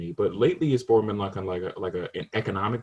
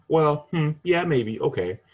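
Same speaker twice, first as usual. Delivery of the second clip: high, loud hemming and hawing; mock reluctant agreement; hesitant relative; 6 semitones higher, 4 dB louder, slower than usual. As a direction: hem and haw like an unsure relative. Mimics hesitant family member.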